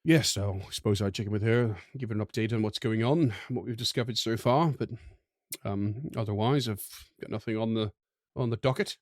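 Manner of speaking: lightly put-on classy voice; a hint of refined airs; classy character voice. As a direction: speak as a would-be classy adventurer. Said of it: "Sounding super classy today there".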